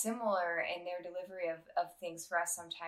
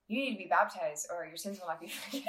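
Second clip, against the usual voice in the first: mock preachy warning; faster than usual. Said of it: "we don't say that".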